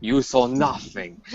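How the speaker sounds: slow, hushed mock Italian accent; Italian accent, drawn out slowly. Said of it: "start talking in that Italian accent".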